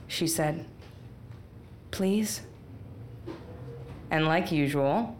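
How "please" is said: understated gentle request; gentle but firm. A narrator's reading. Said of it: "in that gentle voice that had a back to it".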